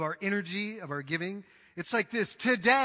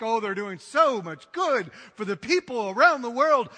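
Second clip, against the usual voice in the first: mock self-satisfied donor; 7 dB louder than usual. Mocking smug donors.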